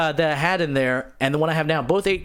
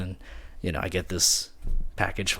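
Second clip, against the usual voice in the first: usual speaking voice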